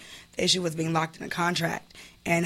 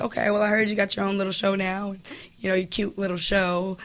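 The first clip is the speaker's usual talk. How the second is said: petty jab; 3 dB quieter than usual. Retold or imitated. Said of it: "You had the petty line?".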